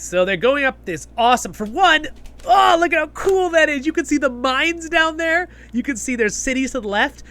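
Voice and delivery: high, loud fan excitement; thrilled, pitch soaring; real excited gushing. Real, not acted. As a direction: burst out in awe at the view. Gushing over a favourite scene's view.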